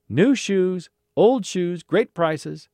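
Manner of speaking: high, loud market cry; vendor's call. Acted. Shoe seller to market crowd, calling out. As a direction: hawk it to the whole street.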